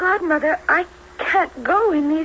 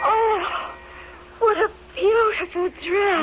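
tearful wonder; 4 semitones higher than usual. Acted. Overwhelmed by the gown.

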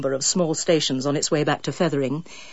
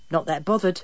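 insolent. Acted. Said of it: "right side of insolence".

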